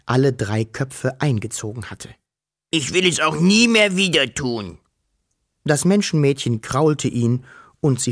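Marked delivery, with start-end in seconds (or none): 2.7-4.8 higher, ashamed dragon promising with a touch of sobbing; a hint of tears from the ashamed dragon; tearful dragon. A narrator's reading. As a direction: sound sorry and a little teary. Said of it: "schluchzte der Drache".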